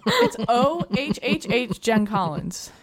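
slowly spelled out, each letter apart; slow and clear. Shown as a demonstration. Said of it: "that's not me".

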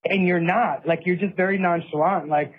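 tearful plea. Retold or imitated. To his jailed brother in the attorney room, mildly tearful pleading. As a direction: replay begging your brother through tears, lightly. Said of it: "I remember I started crying".

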